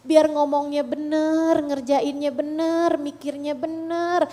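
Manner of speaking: slow, drawn-out plea to God; acted supplication, settling down at the end; pleading prayer. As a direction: beg God for help, stretching the words.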